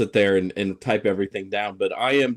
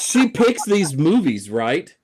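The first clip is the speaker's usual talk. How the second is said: lightly voiced wife, higher and slower; wife's question; 5 semitones higher, 3 dB louder, slower than usual. Wife asking husband who picks the movies, lightly acted. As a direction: pitch it up, drawing out the question. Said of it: "my wife looked at me and said".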